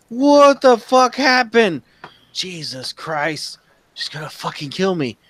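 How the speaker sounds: high, drawn-out acted alarm; scared shock. Husband fears his wife over the frozen plants, high alarm. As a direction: start loud and aghast, ease into dread. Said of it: "looking scared".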